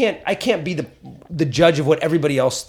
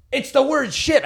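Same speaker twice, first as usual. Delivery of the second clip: mock club owner; 10 semitones higher, slower than usual. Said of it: "And the guy goes".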